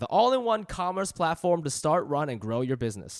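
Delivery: polished sponsor-copy delivery; podcast ad read. Acted. Host explaining a commerce platform to listeners, ad read. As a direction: pitch it briskly to listeners, phrase by phrase.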